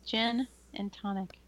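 slow clear repeat. Real, not acted. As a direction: repeat it slowly so they catch it.

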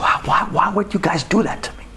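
pained breathy whisper. Retold or imitated. Wronged man whispering his hurt to the bullies. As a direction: ask it almost without voice.

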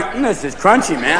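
stoned eater. Acted. Stoned person eating kitty litter, light stoner voice. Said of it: "eating kitty litter going".

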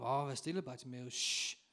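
acted crowd hushing someone; dismissive hush ending in a long shh; shushing. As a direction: shush him, as the onlookers would. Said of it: "de andre, de tyssede på ham".

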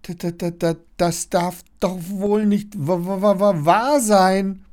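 stammer, utterly dumbfounded; repeated first sounds, rising in disbelief; stunned stammering. A narrator's reading. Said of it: "stammelt er immer noch fassungslos".

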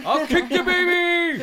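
high, slow, laughing yell; laughing shout. Real, not acted. Jokey outburst after kick offer.

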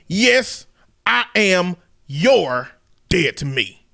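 lightly voiced country dad, slowing at the end; racist country daddy. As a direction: disown her as a stern country father. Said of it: "racist country daddy voice".

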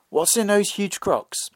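slow, breathless whisper. A narrator's reading. The girl whispers slyly to the young man, slow whisper. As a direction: lean in and hiss the question secretly.

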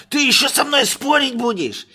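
high, loud, furious voice; angry master. Acted. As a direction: snap at a servant who argues.

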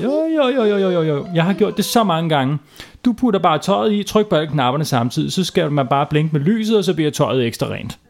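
squeaky-high repeated jo, sure of himself; eager boy Kalle. Acted. Kalle voiced insisting.

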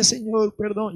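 lightly acted tearful plea; a touch of weeping repentance; imitated crying. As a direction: mimic someone begging forgiveness in tears. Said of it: "lloraba y lloraba y decía".

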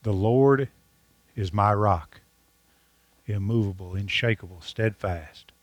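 slow, deliberate scripture reading with long pauses; read slowly. Shown as a demonstration. Pastor rereads the psalm to his congregation, slowly and deliberately. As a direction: let each phrase land, slowly. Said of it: "I'm gonna read that slow 'cause I want you to listen".

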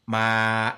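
ma cut short, stiff and loud. Shown as a demonstration. Teacher demos stiff-voice ma to student. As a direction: clip ma off with the throat. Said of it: "I've got stiff voice".

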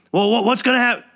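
high, stammering mock yell; retold yelling. Customer demanding to know what happens, mock yelling. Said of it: "Wally Backman starts yelling".

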